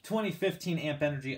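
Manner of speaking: a little winded, catching breath between words. Real, not acted. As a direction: talk while short of breath. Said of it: "I'm out of breath".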